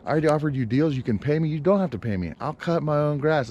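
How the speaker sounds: imitating an annoyed talk with the landlord; mock confrontation. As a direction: tell the landlord off, half in jest. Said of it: "I'm gonna be like".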